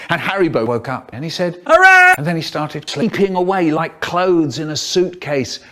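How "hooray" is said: loud high hooray; cheer. Acted. Sleeping classmate waking to celebrate, loud cheer. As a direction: shout it out in joy.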